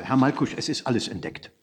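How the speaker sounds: soft, confidential warning under the breath; breathless whisper. A narrator's reading. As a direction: murmur it breathlessly, without preamble. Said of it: "diesmal atemlos und flüsternd und ohne Umschweige".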